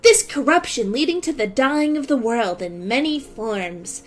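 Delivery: lightly voiced anime girl reading; a hint of a bright character voice; Akira voice. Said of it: "start reading this in my Akira voice".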